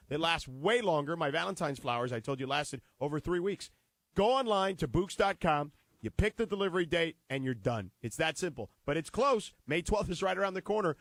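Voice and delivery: upbeat sponsor read, selling it. Acted. Host pitching the sponsor to listeners, upbeat ad read. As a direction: pitch the flowers to listeners like a radio ad.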